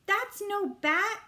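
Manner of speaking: slow, high yelled call. A narrator's reading. Peter yelling after Libby, slow loud call. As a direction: call it out while running. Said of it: "I yelled".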